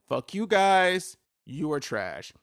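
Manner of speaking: loud, slow, furious curse; real loud anger at the state; angry outburst. Real, not acted. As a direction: spit it out at them, drawn out and loud. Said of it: "That was a whole rant".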